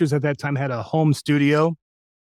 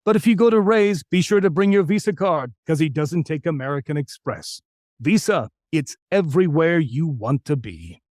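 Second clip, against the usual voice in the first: 2 semitones higher than usual. Shown as a demonstration. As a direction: sell it like a folksy card-company spot. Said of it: "he delivered almost all of his".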